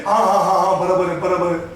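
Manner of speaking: low, repetitive yes-yes in Hindi; congregation's empty agreement. Acted. Preacher mimicking people who still say barabar, low rote agreement. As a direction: agree mechanically, voice dropped low. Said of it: "And still we say".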